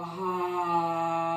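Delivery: long open-mouthed exhale sigh; dramatic sigh. Shown as a demonstration. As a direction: let out a big audible sigh. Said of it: "big sigh, let it go".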